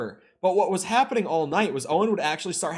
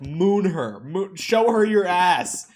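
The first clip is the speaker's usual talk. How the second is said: loud, slow egging-on shout; mock yelling; 3 semitones higher, 5 dB louder, slower than usual. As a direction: yell at your friend to do it, drawn out. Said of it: "are all yelling at him".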